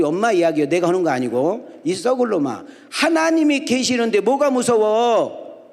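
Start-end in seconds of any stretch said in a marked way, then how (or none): 1.8-5.7 high, drawn-out motherly telling-off; mother's scolding. Retold or imitated. Mother telling her son God is there so nothing is scary, scolding. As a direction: imitate a country mother's scolding, rising high and slow.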